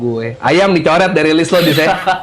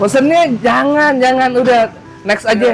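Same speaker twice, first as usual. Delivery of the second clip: laughing; 11 semitones higher than usual. Real, not acted. Laughs while protesting the order.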